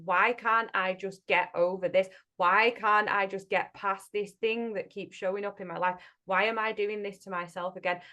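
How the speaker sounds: mock exasperated sigh of a stuck client; frustrated inner voice. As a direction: vent the stuck frustration at yourself. Voicing self-frustration.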